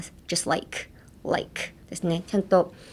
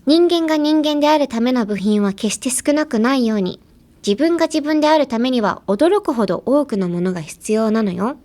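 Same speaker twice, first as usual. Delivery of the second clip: higher, fast line delivery; anime line reading; 4 semitones higher, faster than usual. Acted. Teacher performs the anime phrase, higher and fast. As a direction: voice Motoko's line with feeling. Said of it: "フレーズいきますね".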